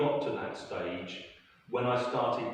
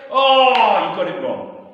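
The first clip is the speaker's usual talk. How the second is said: louder, slower triumphant gotcha; mock triumph; gloating; 8 semitones higher, 14 dB louder, slower than usual. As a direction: rub in the win, drawn out. Teacher gloating over bet.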